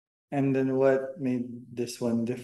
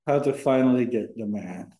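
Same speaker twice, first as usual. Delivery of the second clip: louder, projected restatement of the title; speaking up; 2 semitones lower than usual. Real, not acted. Guest boyfriend repeating the title for the host, speaking up. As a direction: say it up at full, clear volume. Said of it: "have to speak louder though".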